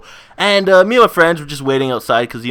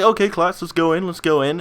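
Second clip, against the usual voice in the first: a hint of a curt teacher, pitched up; bossy teacher ordering the class in, lightly voiced; lightly mocking rude teacher; 6 semitones higher than usual. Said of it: "she said it in, like, a rude way".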